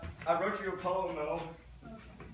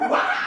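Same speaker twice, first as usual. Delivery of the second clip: Impression of a band; 18 dB louder than usual. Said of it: "my Disturbed impression".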